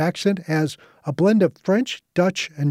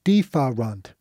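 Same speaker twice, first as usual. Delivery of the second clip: "Différent." in a French accent, lower; 4 semitones lower, slower than usual. Shown as a demonstration. Showing how the patient's word came out, French accent. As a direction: say "Différent." the French way, stress on the end. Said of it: "It sounded French".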